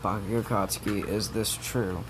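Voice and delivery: quiet, serious scolding; stern teacher. Retold or imitated. Teacher warning Bakugo, quiet and stern. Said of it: "she's just like".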